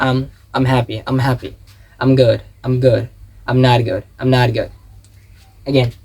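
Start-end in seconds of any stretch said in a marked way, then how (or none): 0.1-4.7 "I'm" as one reduced syllable joined to the next word; contraction drill. Shown as a demonstration. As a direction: repeat each "I'm" phrase in steady rhythm. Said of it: "এরকমই বলতে হবে".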